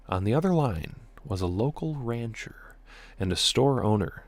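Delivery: deliberate read-aloud storytelling; documentary-like story reading; story narration. A narrator's reading. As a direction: narrate it in measured phrases with pauses.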